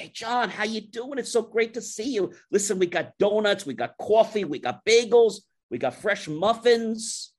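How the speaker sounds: high, gushing salesman welcome; effusive greeting. Retold or imitated. Retold client-hungry vendor's effusive greeting.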